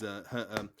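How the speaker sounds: ordinary delivery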